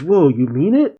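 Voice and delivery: put-on mildly excited kid voice; a touch of hopeful wonder, rising at the end. Pan asks Piccolo about training her, mildly excited. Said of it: "Pan excitedly says".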